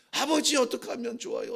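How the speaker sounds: mild plea, stress on 아버지; a son crying out 아버지 to his father; pleading cry. Retold or imitated. David pleads to God the father, mild pleading cry.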